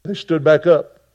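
loud, high-pitched preaching climax; full-force preaching. Acted. Preacher telling the arrest of Jesus to the congregation, loud and high. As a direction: build the story to a roar from the pulpit.

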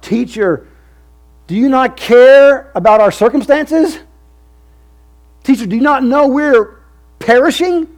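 high, loud, desperate pleading shout; panicked cry. Acted. Disciples in a sinking boat cry out to Jesus, high and desperate. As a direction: cry out to the Teacher as if drowning. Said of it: "And they cry out".

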